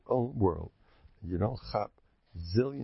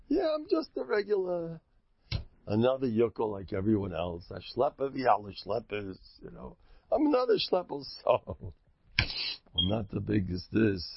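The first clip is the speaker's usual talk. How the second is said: mock humble voice. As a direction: play down yourself like a humble yokel. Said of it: "you're supposed to have a certain humility".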